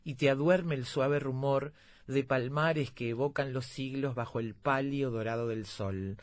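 slow solemn anthem reading; poem recital. Shown as a demonstration. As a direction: recite it slowly, like a hymn. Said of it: "este otro que les leía es un fragmento del himno de Rocha". (recitando un himno despacio)

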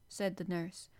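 plain reading voice

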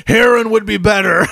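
mock outburst breaking into laughter; retold bursting laughter. Dad answers son's heroin joke, laughing outburst. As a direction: imitate a dad cracking up. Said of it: "he starts bursting out laughing".

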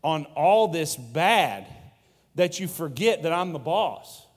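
bold, insistent reassurance. Retold or imitated. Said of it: "He's saying".

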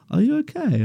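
very high, gentle woman's voice; concerned lady. Retold or imitated. Customer checking on the porter on her lawn, high and worried. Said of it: "she was like".

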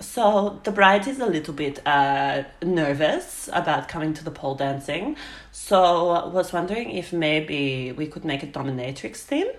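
badly faked Eastern European accent, halting; bad Russian accent. Client asking for a dominatrix theme, bad Russian accent. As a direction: imitate a caller in a rough Russian accent. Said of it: "gonna be the worst accent ever".

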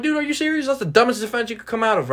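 high-pitched mock disbelief; exaggerated, high incredulous reaction; incredulous outburst. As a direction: voice jumps way up, scoffing at the excuse. Teller acts out disbelief at alibi.

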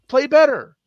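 fired-up sports-radio demand; emphatic rant. Real, not acted. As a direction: bark it at the bubble teams. Ranting at teams wanting expanded fields.

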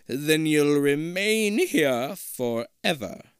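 high, slow, eerie disembodied voice; hollow echoing voice. Acted. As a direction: echo it out like a ghost in the walls. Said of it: "a hollow voice".

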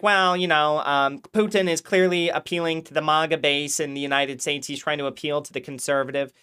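mock a measured commentator's calm explaining; a hint of a smug podcast host; imitating Mario. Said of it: "he talks like that".

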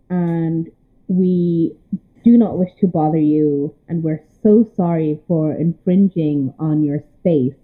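slow, humble pleading to a dragon; grovel, slow and humble. Acted. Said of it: "groveling character".

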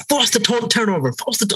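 high, urgent mock fan coaching; passionate American fan. Mimicking an American fan beside him at the match, super passionate. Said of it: "super passionate about every little play".

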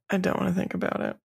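said fast again to dodge the thought. Real, not acted. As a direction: rush it out squeamishly.

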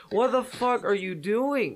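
high, slow, stunned "what the fuck"; outraged disbelief at a friend; shocked disbelief. Retold or imitated. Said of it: "I'm like".

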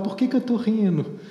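high-pitched mock bewilderment amid laughter; retold helpless laughter. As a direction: imitate someone baffled by their own giggles. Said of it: "ela ia chorando de rir".

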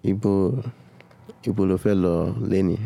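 "Ibo lo fẹ́ lọ léni" as a native Yoruba speaker demonstrates it; Yoruba translation demo. Shown as a demonstration. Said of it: "How would you say".

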